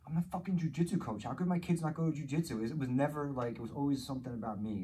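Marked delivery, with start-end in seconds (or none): 0.1-2.6 higher, louder indignant rant; mock indignant dad. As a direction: huff like a proud offended coach. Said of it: "it was always like".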